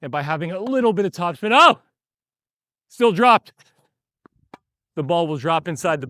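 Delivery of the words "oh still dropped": sharp, higher, louder exclamation; surprised outburst mid-rally. Real, not acted. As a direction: react out loud as the ball dips in. Ball drops after he hits it.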